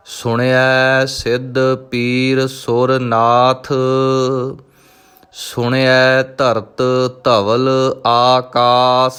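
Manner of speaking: slow, drawn-out devotional chanting of each word; slow Gurbani recitation. Acted. Teacher reciting Japji Sahib for students, slow devotional chant. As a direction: intone every syllable slowly and reverently.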